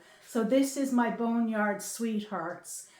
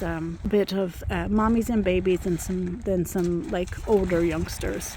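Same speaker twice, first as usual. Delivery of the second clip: raised voice against the wind; shouting over wind; 6 dB louder than usual. Real, not acted. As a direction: speak up over a gusty wind. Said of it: "I hope you can hear me over the wind".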